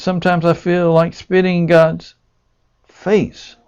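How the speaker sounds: mildly agitated patient, pitch climbing as it goes; a touch of despairing complaint, rising in pitch; lightly voiced distressed patient. Acting out a distressed patient's words.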